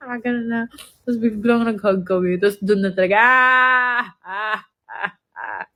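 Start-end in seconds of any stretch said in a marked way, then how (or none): 3.2-5.7 imitated crying. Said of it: "Umiyak na ako".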